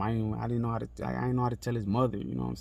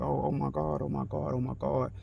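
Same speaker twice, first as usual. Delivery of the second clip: imitating her freaking out; 5 semitones higher than usual. Imitating the white lady at the body, high retold panic. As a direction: imitate a panicked woman, pitched up. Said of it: "she, she freaking out".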